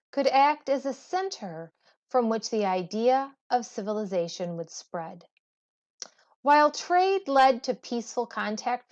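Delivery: measured read-aloud textbook voice. Acted. Teacher reading the history book aloud to students, measured read-aloud. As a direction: read the passage clearly to the class.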